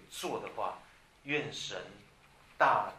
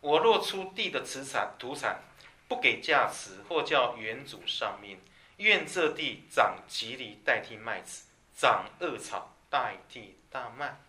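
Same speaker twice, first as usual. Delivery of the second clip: scripture reading; 4 dB louder, slower than usual. Acted. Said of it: "最后他讲说".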